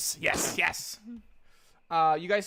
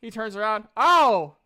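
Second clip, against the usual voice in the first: higher-pitched shopkeeper voice, a weary seller listing wares; tired half-elf merchant; 6 semitones higher than usual. Acted. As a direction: play the sleepless half-elf eager to sell.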